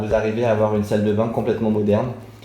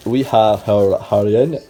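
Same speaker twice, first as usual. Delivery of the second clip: French-accented English; 2 semitones lower, 4 dB louder, slower than usual. Shown as a demonstration. Vlogger showing off a T-shirt slogan, French-accented English. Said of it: "avec mon accent anglais qu'on adore".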